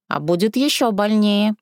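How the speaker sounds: old woman's mock menace; gloating old woman. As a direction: threaten her with relish. Old woman throws apple.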